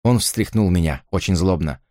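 normal talking voice

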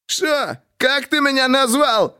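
very high, slow outraged challenge; flaring up. A narrator's reading. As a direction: flare up in disbelief and rage. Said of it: "взвился Жарков".

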